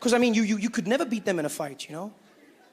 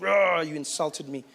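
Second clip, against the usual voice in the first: mock macho anger; 4 semitones lower, slower than usual. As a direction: roar then protest, slow and low. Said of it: "that's what men do".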